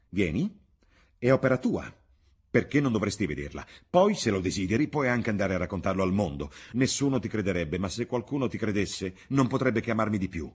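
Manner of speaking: loud, feverish and haughty; proud Dorian. Acted. Dorian taunting the painter, loud and haughty. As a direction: taunt him with delirious pride.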